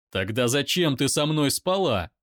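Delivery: loud shout back; loud pained shout; angry shout. Acted. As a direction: roar it in pain. Daimon shouts.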